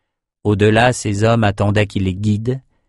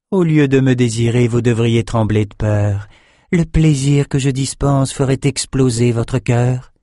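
impassive sorceress; 3 semitones higher than usual. Acted. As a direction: coolly warn them off. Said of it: "Impassible, elle lâcha simplement".

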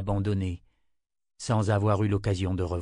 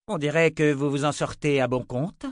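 sardonic leader; 5 semitones higher, 3 dB louder than usual. Acted. Sister mocks soldiers.

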